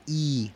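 "I" as a long pure "ee"; I larga. Shown as a demonstration. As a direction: hold the vowel "I" steady. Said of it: "se escucha la I larga". ("I" alargada, "iii")

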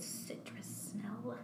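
talking through hiccups. Real, not acted. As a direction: speak between little hiccups. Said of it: "I have the hiccups".

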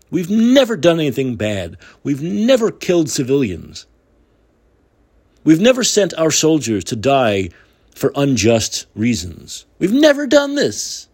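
sarcastic denial, leaning on every never; mock denial. Host mocking his country's amnesia about Iraq, sarcastic denial. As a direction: feign total innocence, stretching the claims out. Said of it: "We're talking as though Iraq never happened".

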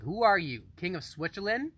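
high, loud mock telling-off; retold angry outburst. Retelling an outburst at an over-announcing dad, high and indignant. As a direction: snap back at someone acting like royalty. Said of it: "I got so mad".

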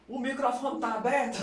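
high, drawn-out mock question with laughter; imitated phone scolding. Boss phones the studio about the open mic, high imitation. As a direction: stretch it out high, laughing as you imitate the caller.

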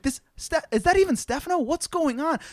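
high-pitched confused fretting; imitated high, panicky disbelief; mock bewildered panic. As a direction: act out not recognizing yourself, voice way up. Retold panic at own reflection.

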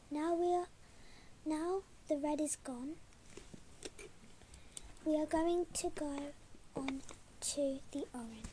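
soft, hushed meditation voice with whispered bits; soft bedtime meditation guide, half whispered; calm voice. Acted. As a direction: guide a sleepy listener gently. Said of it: "I will do it in a calm voice".

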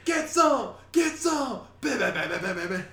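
shrieking, laughing, very high war cry; laughing crazed gunner. Acted. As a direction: cackle while firing. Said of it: "Full Metal Jacket reference".

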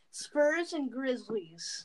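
slow breathy ASMR whisper. Pretend. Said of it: "Are we doing the A S M R?".

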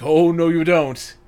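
loud, high retort, imitating a hero; hammed-up "not on my watch" challenge; mock defiance. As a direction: cut in big and high to stop a foe. Retold character blocks the attack.

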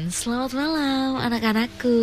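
put-on kids show host. Mimics kids' show host.

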